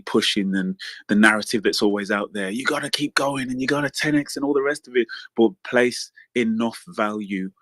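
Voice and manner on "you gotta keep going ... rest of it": a light put-on American accent, pitched higher. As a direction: mimic an American hustle-culture coach in an American accent. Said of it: "go into your American accent".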